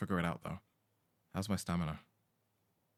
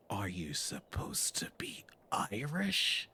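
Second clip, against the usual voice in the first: puzzled questioning; slower than usual. Acted. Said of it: "I'm reading the text and I'm like".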